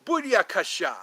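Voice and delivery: Ali G catchphrase. Retold or imitated. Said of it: "Ali G".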